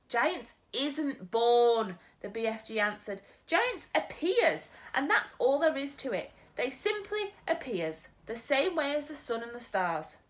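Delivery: a gentle giant muddling his words; storyteller's BFG. Acted. BFG explains.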